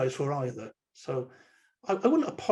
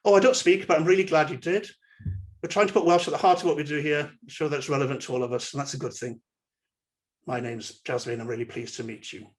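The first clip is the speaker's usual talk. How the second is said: warm welcoming. Shown as a demonstration. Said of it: "So we could say something like this".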